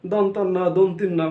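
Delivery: "দন্তন্য, দন্তিন্য" slowly, as don-ton-no, don-tin-no; common mispronunciations. Shown as a demonstration. Teacher listing learners' mistakes, slow merged "দন্তন্য, দন্তিন্য". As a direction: set out both merged forms slowly, "দন্তন্য", then "দন্তিন্য". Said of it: "আমরা সাধারণত দন্তন্য বলি".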